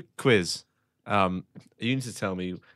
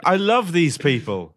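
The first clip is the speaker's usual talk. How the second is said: excited dog voice; 7 semitones higher, 6 dB louder, slower than usual. Pretend. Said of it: "I could be saying, like".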